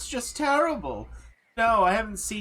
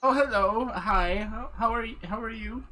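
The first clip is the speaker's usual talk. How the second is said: put-on old woman voice; 2 semitones higher than usual. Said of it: "she goes".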